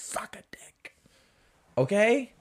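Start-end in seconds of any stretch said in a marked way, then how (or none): 0.1-1.0 very soft, breathy dismissal; whispered insult. Acted. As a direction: whisper it as a crude punchline. Punchline after mock coffee pitch.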